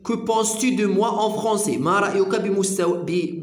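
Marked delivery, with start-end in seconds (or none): 0.1-1.8 very slow, careful French read; slow French model. Shown as a demonstration. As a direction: present the phrase slowly for learners. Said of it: "كو بونس تو دو".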